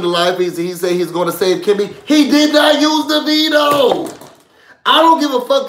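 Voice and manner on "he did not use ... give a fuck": angry shout. Real, not acted. Angry rant about houseguest.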